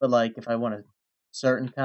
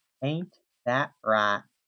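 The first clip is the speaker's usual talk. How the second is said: horrible, overdone fake American Southern accent. Asking the dear old viewer for agreement, in a horrible fake Southern accent. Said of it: "I'm faking a horrible southern accent right now".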